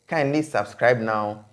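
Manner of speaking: slow, deliberate call to subscribe; slow outro plea. Acted. Host asking viewers to subscribe, slow and deliberate. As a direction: spell it out slowly for the viewers.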